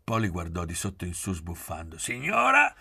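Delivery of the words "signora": very high, loud call; shouted call. A narrator's reading. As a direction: cry out to the lady across the table. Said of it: "gridò Pieretto".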